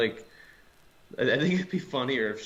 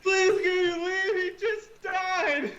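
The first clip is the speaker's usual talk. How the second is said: high-pitched put-on voice. Acting out a pushy funeral guest.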